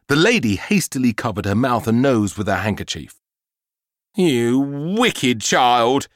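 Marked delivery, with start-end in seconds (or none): 4.1-6.1 shouting. Acted. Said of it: "she shouted".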